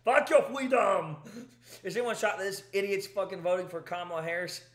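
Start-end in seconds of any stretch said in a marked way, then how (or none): 0.1-1.2 laughing through it. Real, not acted. Repeating the Arnold line for his laughing wife, laughing through it. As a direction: shout it again while cracking up. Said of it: "my wife is laughing".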